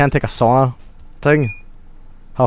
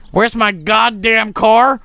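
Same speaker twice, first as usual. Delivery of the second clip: higher, slow, drawn-out mock outrage; exasperated demand; 7 semitones higher, much slower than usual. Player searching for the lost car, exasperated demand. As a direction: stretch it out, rising to an indignant question.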